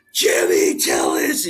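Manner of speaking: breathy whisper of a name, slow; whispered greeting. Retold or imitated. Ben whispering his name on seeing him, slow whisper.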